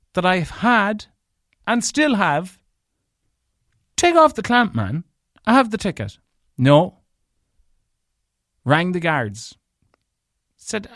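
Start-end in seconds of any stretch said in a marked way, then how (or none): 4.0-6.2 high, loud demand to take off the clamp; retold angry shout. Narrator shouting at the clamp man to remove it. 6.6-7.0 blunt loud refusal. Retold or imitated. Clamper's flat refusal in quarrel.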